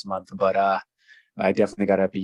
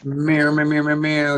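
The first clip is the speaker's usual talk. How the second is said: meowing; 6 semitones higher, 4 dB louder, slower than usual. Pretend. Playful meowing at friend.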